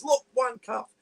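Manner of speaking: high mock-posh English exclamation; theatrical posh Englishman, pitched right up; posh Pommy accent. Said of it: "putting on this pom-, posh Pommy accent".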